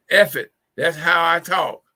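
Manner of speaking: mild mock defiance, loud and slow; hammed-up, emphatic comeback; retold defiance. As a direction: imitate a man brushing off a complaint. Retold man cussing him out.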